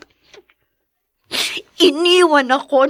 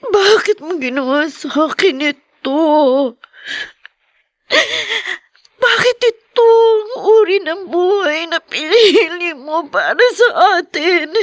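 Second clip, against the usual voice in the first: tearful. Acted. Daughter blaming her absent mother.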